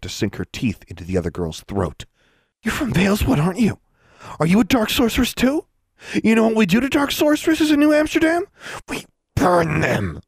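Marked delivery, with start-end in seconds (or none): 2.6-10.2 high-pitched, menacing interrogation, slowing on the last words; menacing threat. A narrator's reading. Harriet threatening the girl she pinned to the wall, menacing. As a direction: threaten her in a much higher voice.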